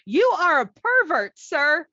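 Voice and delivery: high, loud accusing cry; indignant accusation. Retold or imitated. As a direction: call him out in public. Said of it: "she's like".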